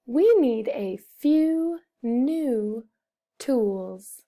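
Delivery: slow but linked, one pause before tools; slow joined-up reading. Shown as a demonstration. Teacher repeats the sentence for pupils, slow joined-up reading. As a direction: read slowly, joining the words into a phrase.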